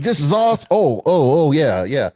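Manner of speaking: high, thrilled burst that settles; giddy excitement. Retold or imitated. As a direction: gush like a fan on set. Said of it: "I was like".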